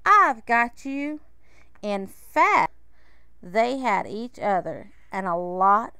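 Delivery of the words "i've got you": loud, slow, reassuring call. A narrator's reading. Panda holding the ladder for his friend, calling out loudly. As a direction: call it up slowly and firmly. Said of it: "the panda called".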